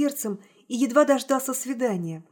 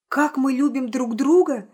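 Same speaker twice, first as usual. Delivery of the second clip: louder, stunned echo of her words; cry out; 2 semitones higher, 5 dB louder than usual. Acted. Hero to Nastenka, echoing her words in a louder cry. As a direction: throw her phrase back at her, a touch louder. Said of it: "закричал я".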